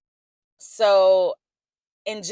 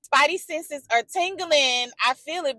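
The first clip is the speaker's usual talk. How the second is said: mock excited higher call to a friend; talking back excitedly; 7 semitones higher, 4 dB louder than usual. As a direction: hype her up like a girlfriend. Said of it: "I'm talking back to her like".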